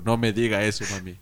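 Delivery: frozen, subdued disbelief; stunned cold. Retold or imitated. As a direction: retell it as a kid frozen by bad news. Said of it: "Yo así frío". (helado, sin reaccionar)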